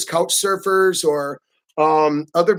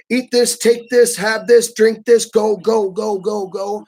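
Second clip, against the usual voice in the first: pushy urging; 2 semitones higher, slower than usual. Retold or imitated. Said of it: "people are way more pushy".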